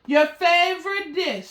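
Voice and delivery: a scheming butler offering a treat, sweetly; sly butler. Acted. Butler Edgar serves drugged milk.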